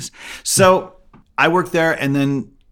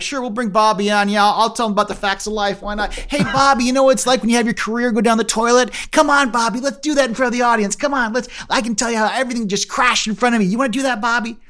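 high, loud mock-cheerful bitterness; sarcastic fake enthusiasm to a kid; imagined bitter reply to the teacher; bitter sarcasm; 10 semitones higher, 4 dB louder than usual. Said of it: "I didn't say that to the kid".

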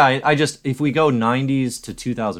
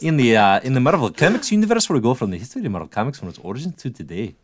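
hammed-up English podcast intro, a touch higher in spots; mock posh English accent; 3 semitones higher than usual. Host mocking a cohost by opening the show in an English accent. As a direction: put on a plummy English host voice, half laughing. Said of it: "if I came into every episode".

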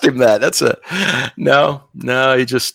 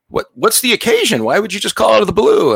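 dad voice; 10 semitones higher than usual. Retold or imitated.

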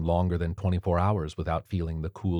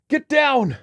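much higher, louder scream; 7 dB louder than usual. A narrator's reading. Maury screaming a warning as a bomb falls, screaming. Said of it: "Maury screamed".

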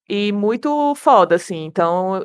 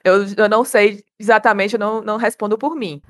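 hungover; 2 semitones lower than usual. Real, not acted. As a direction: talk like the morning after drinking. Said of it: "E eu estou de ressaca".

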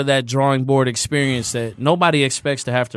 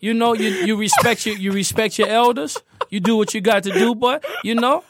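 higher, imitating an older cousin's advice; lightly voiced cousin giving advice, higher; New Orleans cousins; 7 semitones higher than usual. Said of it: "that's exactly how they talk".

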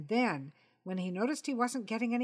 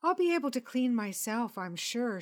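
a touch higher, brightly assured; lightly voiced Jessica; 5 semitones higher, 4 dB louder than usual. Woman assuring Jonathan she'll wash clean, lightly voiced. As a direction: reassure him she can clean up.

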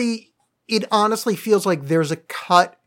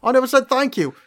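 high-pitched, terrible mock Chicago accent; Gary Oldman; 8 semitones higher than usual. Podcaster replaying the film's rooftop scene, terrible Chicago accent. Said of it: "his accent's fucking terrible".

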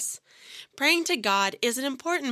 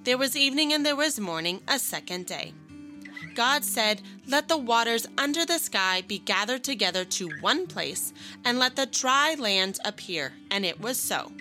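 put-on Bible reading to children. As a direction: read it like a children's Bible story. Reads Genesis to children.

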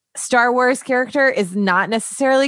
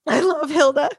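excited gasp; 7 semitones higher, slower than usual. Real, not acted. Gasps with delight at Hilda.

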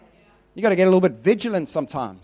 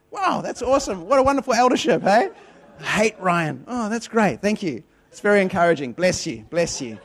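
sarcastic. Retold or imitated. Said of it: "I was like".

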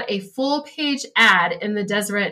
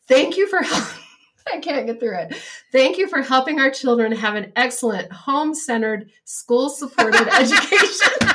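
higher-pitched reading that cracks into laughter; trying not to laugh; 3 semitones higher than usual. Real, not acted. Co-host reading the family's thank-you line, breaking up laughing. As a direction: read it out while fighting real giggles. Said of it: "I'm sorry, I'm laughing".

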